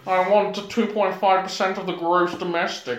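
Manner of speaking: a hint of a fussy star negotiating his cut; Kenneth Williams impression. Mock star voice demanding a share. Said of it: "him properly even trying to negotiate".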